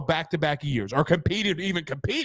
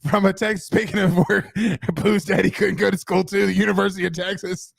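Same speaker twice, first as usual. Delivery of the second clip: words broken by real laughter; can't keep a straight face; giggling while trying to get back on topic; laughing through it; 3 dB louder than usual. Real, not acted.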